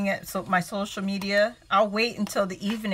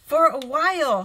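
higher, louder, playing up the drama; dramatic whine; 6 semitones higher, 5 dB louder than usual. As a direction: whine to the husband like a drama queen. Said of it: "I said".

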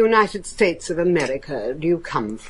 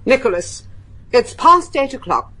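urgent command; 5 semitones higher than usual. Acted. Mistress orders doors bolted.

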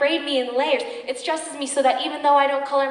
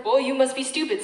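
quick dismissive retort; scornful put-down. Acted. Woman shooting down a suitor, scornful put-down. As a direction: dismiss him with sharp disbelief. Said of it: "I shot him a dirty look".

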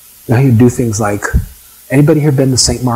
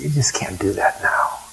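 hushed reply; 9 dB quieter than usual. Retold or imitated. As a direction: drop to a near whisper to answer. Acts out the answer to questioner.

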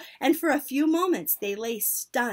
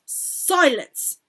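high, loud command; shouted; 6 semitones higher, 8 dB louder than usual. A narrator's reading. Grand High Witch silencing the witches, shouted. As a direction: shout it to hush the room. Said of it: "shouted the Grand High Witch".

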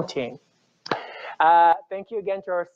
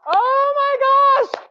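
high, drawn-out gasp of surprise; overjoyed disbelief; surprised; 6 dB louder, much slower than usual. Real, not acted. Surprise at donated winnings.

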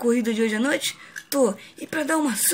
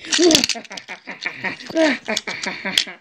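clumsy mock evil laugh; villain laugh. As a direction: try a hammed-up villain cackle. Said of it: "Você não sabe dar risada de vilão".

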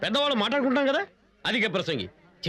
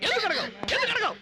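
ఎందుకు pushed much higher; rising angry demand; 9 semitones higher than usual. Acted. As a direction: climb up in pitch demanding. Father escalating demand. (ఎందుకు అడగవు అని గట్టిగా)

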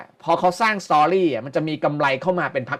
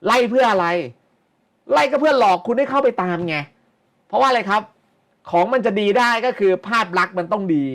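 raised rhetorical questions; 7 semitones higher, 3 dB louder than usual. Real, not acted. Rhetorical questions to stock-chasing viewers.

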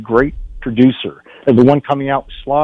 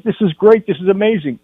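high, elated mock yell; retold excited yelling; 7 semitones higher than usual. Actor phones his agent about the big news, retold excited yelling. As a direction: imitate gushing down the phone. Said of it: "what are you yelling about".

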